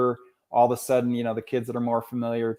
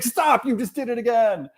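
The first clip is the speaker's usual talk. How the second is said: imitated exasperation; 11 semitones higher than usual. Retold student protesting repeated whys.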